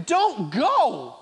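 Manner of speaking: mildly voiced pleading friends. The people urging Paul to change plans, understated pleading. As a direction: urge him to change course, lightly begging. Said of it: "they're pleading with him".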